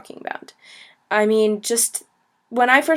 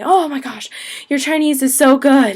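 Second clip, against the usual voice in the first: impressed; 3 semitones higher, 3 dB louder than usual. Retold or imitated. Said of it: "shocked and say".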